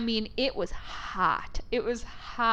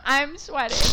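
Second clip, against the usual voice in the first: higher, laughing plea; mock plea for help; 4 semitones higher than usual. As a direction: plead for rescue, half laughing. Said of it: "it was like a plea for help".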